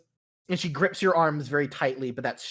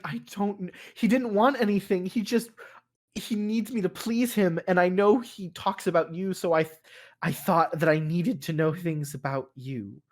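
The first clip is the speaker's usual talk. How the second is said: somewhat higher, a hint of a troubled woman explaining herself; lightly voiced anxious wife; 4 semitones higher than usual. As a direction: sound like she is confessing, a bit lost.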